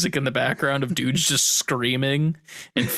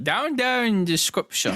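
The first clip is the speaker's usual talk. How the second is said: put-on high, slow little-kid voice; put-on high kiddie voice; child voice; 8 semitones higher, slower than usual. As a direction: exaggerate it like a small child. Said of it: "I turned into a child for that".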